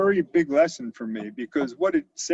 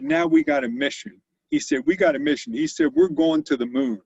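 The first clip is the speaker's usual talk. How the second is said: rallying proclamation; 13 semitones higher, 4 dB louder than usual. Retold or imitated. Boss rallies staff about moon mission.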